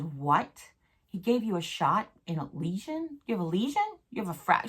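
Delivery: lightly imitated disbelief, rising questions; incredulous questioning. Doctor friend questions her x-ray report, incredulous. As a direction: retell a friend's puzzled double-take.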